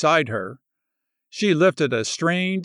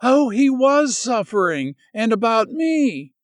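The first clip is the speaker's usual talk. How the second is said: gasped; 7 semitones higher than usual. Acted. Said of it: "she gasped".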